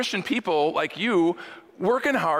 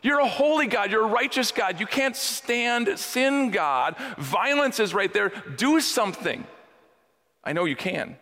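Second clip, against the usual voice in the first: raised, urgent voice pointing at evil, higher pitch; a prophet calling on God, urging, higher; pleading prophet; 5 semitones higher than usual. Retold or imitated. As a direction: play Habakkuk jabbing his finger, demanding God act. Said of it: "I see Habakkuk pointing fingers and going".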